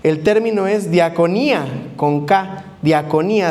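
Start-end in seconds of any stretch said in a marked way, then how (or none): 0.9-1.6 diaconía with the accent on the final í; stress on the I. Shown as a demonstration. Preacher teaching the congregation a Greek term, stress on the í in diaconía. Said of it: "acento en la I". 2.8-3.5 diaconía stressed on its final í. Shown as a demonstration. Preacher repeating the Greek term for the congregation, stress on the í in diaconía. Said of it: "acento en la I".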